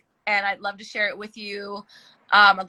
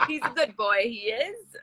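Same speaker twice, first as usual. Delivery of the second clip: playful Cockney, trailing softer at the end; put-on Cockney accent; 4 dB quieter, slower than usual. Shown as a demonstration. Actress showing host her accent, playful Cockney. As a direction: have a go at chirpy Cockney. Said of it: "kind of accent you got there".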